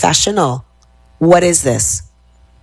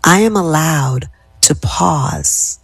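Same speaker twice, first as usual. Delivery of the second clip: slow, unhurried repeat; slow calm affirmation; slower than usual. Shown as a demonstration. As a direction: let the words settle slowly. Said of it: "how my tenor of my voice is going down".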